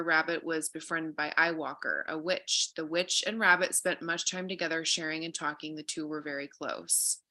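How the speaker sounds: reading a fable aloud, gently; calm storyteller reading; story narration. A narrator's reading.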